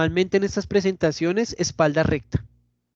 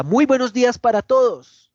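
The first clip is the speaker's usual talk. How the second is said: loud, higher, projected greeting; high intensity; 6 semitones higher, 6 dB louder than usual. Shown as a demonstration. Teacher demonstrating a strong greeting to a class, high intensity. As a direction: project it up and out to the whole room. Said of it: "a que yo diga".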